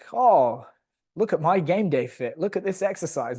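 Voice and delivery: mimicking a self-satisfied poster; mock someone showing off online. Mimicking coaches' bland boastful posts.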